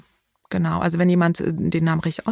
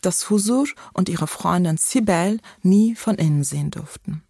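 measured author's reading aloud; literary reading. Acted. Author reading her text to podcast hosts, literary reading. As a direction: read the story out evenly, phrase by phrase.

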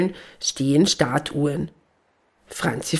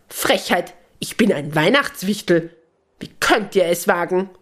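indignant gnome. Acted. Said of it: "ruft die Stimme empört".

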